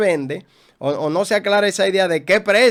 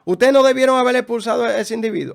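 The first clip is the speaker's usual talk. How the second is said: raised, driving sermon voice; fiery preaching; 2 semitones higher than usual. Acted. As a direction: preach it hard at the congregation. Preaches at full force.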